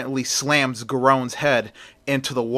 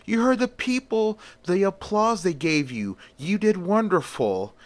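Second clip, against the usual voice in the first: Raul's comforting voice; 9 semitones higher than usual. Acted. Raul comforting Christina in the story.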